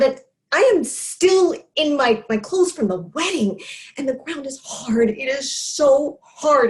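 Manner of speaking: agitated, stressed words punched out; distraught retelling. Acted. Drunk sibling recounting digging at father's grave, distraught. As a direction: relive the struggle, pressing on breathlessly through the words.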